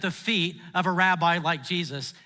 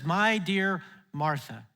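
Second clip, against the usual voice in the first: tender address; slower than usual. Retold or imitated. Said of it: "He starts out and he says".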